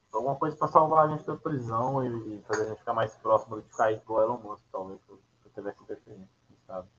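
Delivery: muffled, talking behind a hand; hand over mouth. Real, not acted. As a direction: speak with a hand covering the mouth. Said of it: "você cobriu de novo o negócio".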